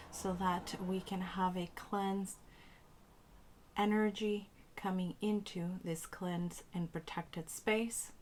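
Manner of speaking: spoken prayer, unhurried and deliberate; cleansing invocation. Acted. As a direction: recite a blessing over the space in short, paused phrases.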